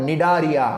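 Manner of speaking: ନିଡାରିଆ starting on an N sound, no C; silent C. Shown as a demonstration. Teacher explains that C is silent, ନିଡାରିଆ modelled from the N. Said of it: "but ସି is silent".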